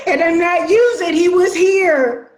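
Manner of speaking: fast, tearful denial; crying while insisting. Acted. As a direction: plead through tears. Grieving sister insists, crying.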